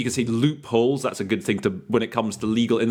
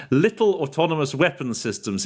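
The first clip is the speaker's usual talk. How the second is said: laughing slip; 4 semitones higher than usual. Retold or imitated. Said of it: "it came out as, uh, from my end".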